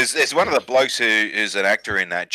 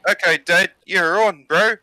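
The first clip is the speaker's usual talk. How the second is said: higher-pitched mock Maori accent; chief's son; 9 semitones higher than usual. Son taking his dad's bet, high mock Maori accent. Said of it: "the son goes".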